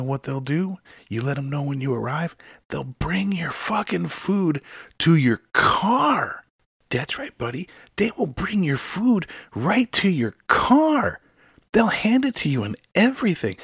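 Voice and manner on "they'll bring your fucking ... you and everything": high, slow mocking explanation; sarcastic emphasis. Host mocks drivers who don't use the app. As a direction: spell it out like he's a child.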